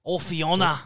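put-on a light, lightly done Scottish accent as Shrek; a touch of Scottish brogue, calling Fiona over; Shrek impression. Shrek calling Fiona over, in a light Scottish accent. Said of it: "No, you just sound Scottish".

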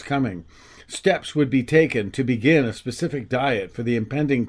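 steady, measured reading voice; story narration. A narrator's reading. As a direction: read it like a storyteller. Reads excerpt from his book.

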